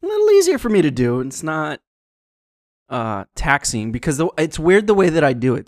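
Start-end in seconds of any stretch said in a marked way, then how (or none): 0.0-1.2 robotic monotone, higher and faster; speak and spell voice. Shown as a demonstration. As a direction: talk like a toy speaking computer. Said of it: "in your speak and spell voice".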